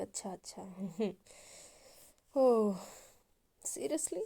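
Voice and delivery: scoffing laugh into a disbelieving question. A narrator's reading. Eva laughs bitterly at Anu's reason, scoffing. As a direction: laugh it off, then mock surprise. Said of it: "वो हंसने लगती है".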